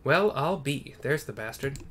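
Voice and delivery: character spotting the villain; first take gruff reveal. Acted. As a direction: announce the enemy openly. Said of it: "he doesn't probably actually talk like that".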